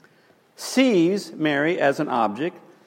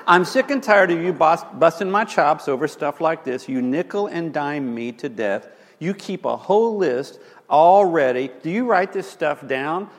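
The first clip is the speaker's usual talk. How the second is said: great emphasis. Retold or imitated. Husband snapping back at his wife, emphatic. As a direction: push back hard on the nagging. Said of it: "he said with great emphasis".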